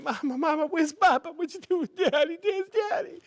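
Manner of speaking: put-on high, loud childish wailing; mock crying. Little boys crying to their mother for Daddy, mock wailing. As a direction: whine like bawling little boys. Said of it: "We're crying with him".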